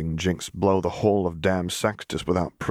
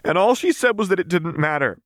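put-on higher, strained young woman telling it bitterly; Vi's voice; 12 semitones higher, 4 dB louder than usual. A narrator's reading. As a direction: voice Vi, raw and worked up over her sister. Vi's voice in the story.

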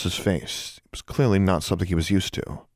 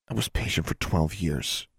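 softer, bitter under the breath; muttered; 6 dB quieter than usual. Acted. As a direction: mutter it resentfully to yourself. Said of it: "she muttered".

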